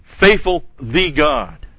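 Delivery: "Faithful" high and loud, slowly drawn out; emphasis on Faithful. Shown as a demonstration. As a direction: proclaim "Faithful" first, slow and strong. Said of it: "puts the emphasis on his character because it puts the faithful first".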